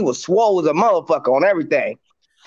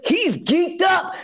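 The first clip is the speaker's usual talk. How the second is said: excited; 9 semitones higher, much slower than usual. Real, not acted. Excited retelling.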